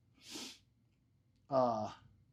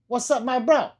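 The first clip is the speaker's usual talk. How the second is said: loud, high hype shout-out; hyped greeting; 8 semitones higher, 9 dB louder than usual. Pretend. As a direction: greet him like a pumped-up bro. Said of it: "Was that good, Ben?".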